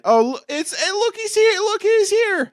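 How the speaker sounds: high, loud excited hello; excited greeting. Real, not acted. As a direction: call out to a friend gleefully. Greeting Chris on arrival, excited.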